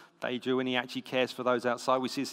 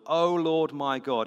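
raised, drawn-out plea to God; crying out; 4 semitones higher, 7 dB louder, slower than usual. A narrator's reading. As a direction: call out to God, higher and louder, slowly. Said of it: "he cried to the Lord".

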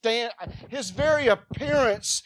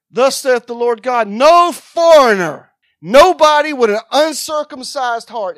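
scripture read out at a scream, much louder; 3 semitones higher, 12 dB louder than usual. Acted. Preacher reading the verse to the church, screamed. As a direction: blast the verse at the congregation. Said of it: "Am I screaming at y'all?".

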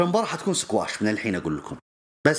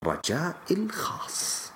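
whisper; 5 semitones higher, 5 dB quieter, slower than usual. Real, not acted. Sudden aside after mock crying.

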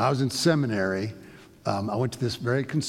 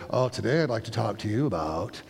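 fake preacher voice; 3 semitones lower than usual. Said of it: "you get this kind of fake voice going on".

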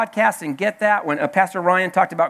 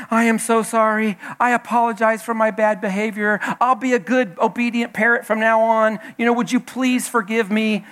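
higher-pitched mock contrite plea; a touch of begging, pitched up; lightly voiced apologetic parrot; 3 semitones higher than usual. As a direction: plead for pardon as a chastened parrot, lightly acted. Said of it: "parrot's just like".

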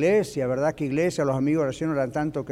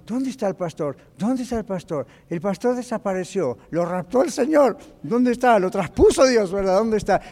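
rising, louder calls of "¿Dónde está?"; excited searching; 3 semitones higher, 4 dB louder than usual. Retold or imitated. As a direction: mimic an excited crowd hunting for the pastor. Congregants searching for the pastor.

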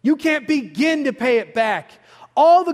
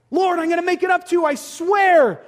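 pleading sinner; 5 semitones higher than usual. Acted. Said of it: "read our Bibles".

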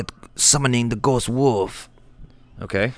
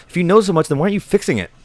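exasperated; 8 semitones higher, 3 dB louder, faster than usual. Acted. Frustrated retort to Shaman.

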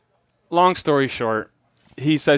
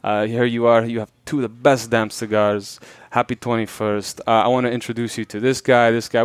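put-on Cuban accent; 3 semitones lower than usual. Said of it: "I'll talk in a Cuban accent".

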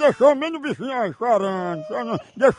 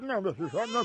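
softer, mock hushing of a child; soothing a baby; 4 semitones lower, 10 dB quieter, much faster than usual. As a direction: drop softly, as if to a baby. Feigns hushing a crying baby.

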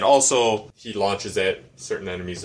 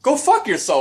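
1 retold snap; 13 semitones higher, 5 dB louder than usual. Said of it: "I was like".

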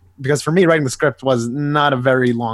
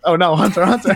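rising panicked call of Hunter; half-laughing mock panic, pitch climbing; 5 semitones higher, 5 dB louder than usual. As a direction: cry out his name in mock alarm. Panicked realization, calling name.

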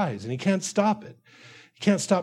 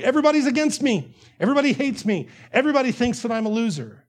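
higher, quick paranoid complaint; mock paranoid; 4 semitones higher, faster than usual. Preacher voicing fearful, paranoid David to congregation, higher complaining voice. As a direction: complain as if everyone is an enemy.

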